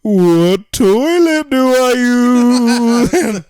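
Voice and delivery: high, loud, slow spooky ghost wail. Pretend. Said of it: "let me hear your impression of a trans ghost".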